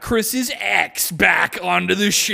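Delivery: slow, high announcer voice; mock game-show host reveal; hammed-up TV host announcement; reality show host. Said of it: "they're like".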